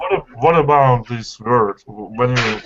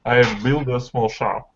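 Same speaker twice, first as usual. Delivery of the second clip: learner's try at casual American English; American accent attempt, words run together; attempted quick American accent. Shown as a demonstration. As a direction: have a go at American linked speech. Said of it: "in an American accent and try to be quick".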